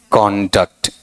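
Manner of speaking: "कॉन्डक्ट" as KON-dukt, first syllable full; noun pronunciation. Shown as a demonstration. Teacher modelling the noun for students, noun pronunciation. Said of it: "इस तरीके से".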